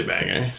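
"Banger" with a reduced ending; local Maine "Banger". Shown as a demonstration. Mainer explains local usage, "Banger" with short ending. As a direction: say "Banger" as BANG-er, no "gore". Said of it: "anybody else from Maine, then you say".

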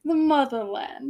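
slow attempt at a Russian accent. Shown as a demonstration. Urged to just try, tentative Russian accent. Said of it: "I can't do a Russian accent".

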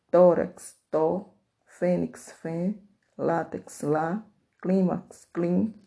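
"tó", "fém", "lá", "clim" slow, each alone after its word; teacher isolating "tó", "fém", "lá", "clim"; stressed syllable demo. Shown as a demonstration. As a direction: punch the first syllable of "tórax", "fênix", "látex", "clímax". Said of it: "a sílaba tônica das palavras".

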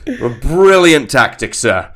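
slow, emphatic praise; lightly voiced admiring subordinate; mock fawning officer. Subordinate praising a British commander's tactics, mock fawning.

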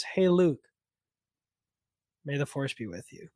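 a quiet, kind goodbye to a friend; gentle farewell. Retold or imitated. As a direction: wish him well gently. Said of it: "more gently says".

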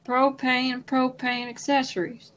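lightly voiced, quietly drawled propane line; a soft half-hearted go at a Texan propane salesman; Hank Hill impression. Host tries Hank Hill's catchphrase, softly and half-heartedly. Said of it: "That's not very good".

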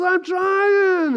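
drawn-out mock protest; hammed-up exasperated whine; exasperated husband. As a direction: act out a husband defending himself, stretching the word. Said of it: "And he goes".

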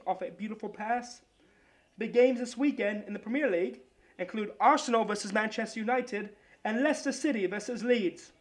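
put-on a shaky amateur Australian accent on a sports read; a wobbly attempt at an Australian accent, pitched a bit up. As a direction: soccer roundup in a hammed-up Australian accent. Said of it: "I'm trying to go Australian now".

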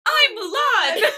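put-on high, slow little-girl voice; tiny voice. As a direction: squeak it out like a proud toddler. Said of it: "In this tiny voice".

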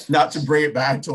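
talking through a laugh; amused chuckle breaking into the words. Real, not acted. Commentator comparing school leagues to college rumors, laughing. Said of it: "And that's why I'm laughing".

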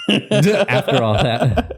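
laughing. Real, not acted.

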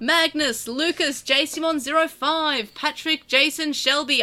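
selling someone a house; eager sales pitch; real estate salesman voice. Pretend. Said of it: "I sound like I'm selling someone a house".

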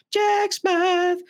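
high, slow DJ announcer; radio DJ voice. Pretend. Radio DJ ident.

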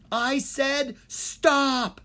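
very slow, high, loud furious order; villain losing control, raging; fuming. A narrator's reading. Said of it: "Maldred fumed".

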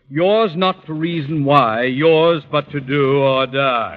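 slow, solemn recitation of a stern verse; slow, weighty quote to end the argument; pompous quotation. Acted. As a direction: lay it down like a decree. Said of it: "The only poem I'm interested in, Miss Brooks, goes".

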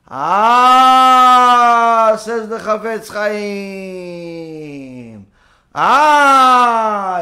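drawn-out loud "Ah", then slow narration; knowing sage. Acted. The Chafetz Chaim answers the man, slow knowing "Ah". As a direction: savor the moment before the lesson.

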